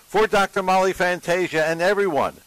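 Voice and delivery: upbeat announcer sign-off over music; radio sign-off. Acted. Host thanking staff and listeners, bright announcer voice. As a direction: roll the credits like a radio host.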